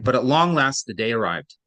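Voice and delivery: "long last" given weight, "the day arrived" dropping away; stress on long last. Shown as a demonstration. Teacher rereads the line, stressing "long last". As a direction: lean on both "long" and "last". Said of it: "I also emphasized long last".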